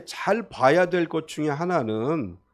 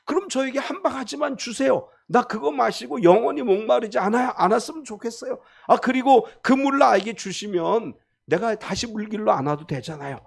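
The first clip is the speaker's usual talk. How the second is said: higher, eager woman asking for water; lightly voiced woman at the well, a touch surprised; curious Samaritan woman; 5 semitones higher, 3 dB louder than usual. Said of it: "그래서 이제 이렇게 얘기해요".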